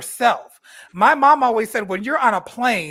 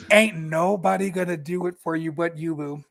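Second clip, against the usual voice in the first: right in your ear; 4 semitones lower, 5 dB quieter than usual. Acted. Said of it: "Let me get close and whisper in your ear".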